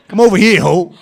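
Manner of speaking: hammed-up joke calling over the streetwalker; mock come-on. Mock pimp call to a hoe.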